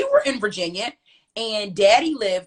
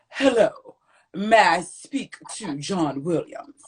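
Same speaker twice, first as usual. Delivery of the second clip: man on the phone; 5 semitones lower, slower than usual. Retold or imitated. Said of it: "He sound really, really weird".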